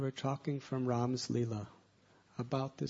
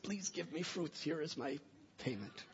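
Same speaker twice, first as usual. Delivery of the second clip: put-on little child voice; 4 semitones higher, 5 dB quieter than usual. A narrator's reading. Small child asks vendor for fruit.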